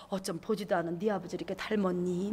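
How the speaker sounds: put-on adoring old grandmother marveling; grandma's fond voice. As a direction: speaker imitates her grandmother, very soft and low. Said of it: "막 이러면서".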